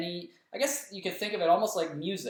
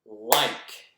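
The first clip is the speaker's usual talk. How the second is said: one loud clapped beat on "Like"; clapped syllable; 4 semitones lower, 5 dB louder than usual. Shown as a demonstration. Teacher claps the one syllable of "Like". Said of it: "this word, if I clap it".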